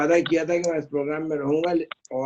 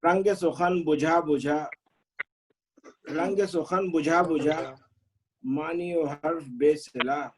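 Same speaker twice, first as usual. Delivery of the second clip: measured couplets with pauses; ghazal recitation; slower than usual. Acted. Poet sharing an old ghazal with friends, measured recitation. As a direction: recite the verse deliberately, half-line by half-line.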